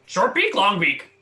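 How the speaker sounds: high bird voice; big beaked toucan. Acted. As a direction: chirp it like a toucan. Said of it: "my toucan impression".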